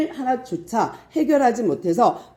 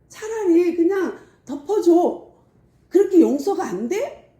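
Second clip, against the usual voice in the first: urgent plea to just cover it; pleading emphasis; 9 semitones higher, 3 dB louder than usual. Retold or imitated. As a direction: beg them to let 덮어줘 land hard. Urging to cover it up.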